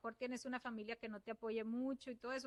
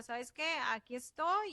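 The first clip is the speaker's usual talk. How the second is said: mock shout; 5 dB louder than usual. Nutritionist voices the body alerting people who ignore symptoms, mild mock shout. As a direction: call out lightly as the body demanding notice. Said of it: "el organismo les grita".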